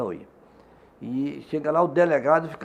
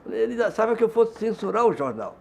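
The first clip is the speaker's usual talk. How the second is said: high-pitched retelling through amusement; amused; 8 semitones higher, 4 dB louder than usual. Retold or imitated. Union president telling colleagues about the police chief, amused. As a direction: imitate someone cracking up over it. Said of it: "morrendo de dar risada".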